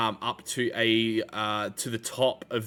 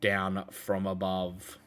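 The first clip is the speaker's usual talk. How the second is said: game master's scene reading. Acted. Reads out tower description.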